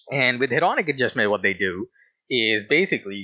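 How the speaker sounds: talking while chewing gum; words round a wad of gum. Real, not acted. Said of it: "sorry, I'm chewing a chewing gum".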